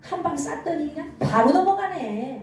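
lightly acted devil crowing over a victim; gloating devil. Preacher voices the devil pleased with his fiery arrow, mildly gloating. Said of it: "마귀가 좋아가지고 막 떼춤을 추는 거예요".

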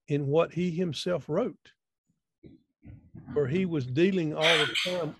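slow, weighty reading of a quoted author; reading aloud a quote. Acted. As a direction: lean into each phrase, slowly. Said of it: "I was reading the other day".

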